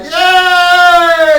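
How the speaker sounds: very high, loud, slow squeal; squeaky half-gnome. Acted. Half-gnome creature agreeing with the crowd, squeaky and loud. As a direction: squeak it out like a weird little goblin.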